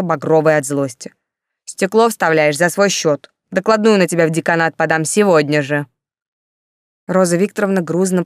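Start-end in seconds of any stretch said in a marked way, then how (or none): 1.6-5.9 stern sentence. Acted. Commandant issuing a punishment.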